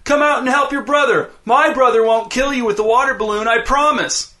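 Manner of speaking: put-on high sing-song kid's taunt; mock him with fake promises; taunting call. A narrator's reading. Dez taunts hiding Blaine, high mocking call.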